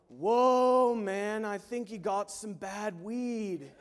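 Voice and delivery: lightly voiced laid-back stoner, slow; drawn-out, baffled and amused; stoner musician. Band musician reacting to the singer, lightly voiced stoner drawl. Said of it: "one of his musicians was like".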